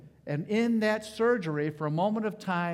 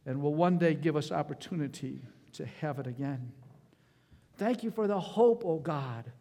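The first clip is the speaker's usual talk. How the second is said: closing prayer. Acted. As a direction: lift the words up to God with reverence. Pastor leads closing prayer.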